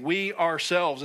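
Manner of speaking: slow, weighted "We ourselves"; "We ourselves" said slow and heavy; emphatic. Shown as a demonstration. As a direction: lean on "We ourselves" word by word. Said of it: "it's very emphatic in the Greek".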